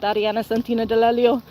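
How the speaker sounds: a light Italian accent on the name. Shown as a demonstration. Showing chat her name in a light Italian accent. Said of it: "say my own name ... with an Italian accent".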